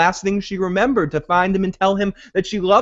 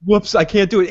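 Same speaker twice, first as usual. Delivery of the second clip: mocking whiny quitter; 4 semitones higher, 3 dB louder than usual. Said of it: "Now you're like".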